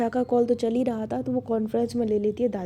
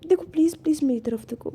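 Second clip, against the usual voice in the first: desperate pleading; 7 semitones higher, 7 dB louder than usual. Acted. Pleading with crying partner.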